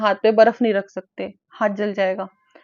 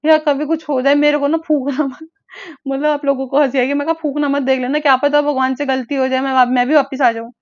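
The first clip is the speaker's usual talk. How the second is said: joking request to mom; 4 semitones higher, 5 dB louder than usual. Retold or imitated. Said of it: "हंसी में लिया".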